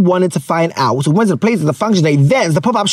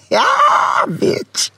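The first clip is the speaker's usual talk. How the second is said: excited shout. Real, not acted. Shouting yeah at the end.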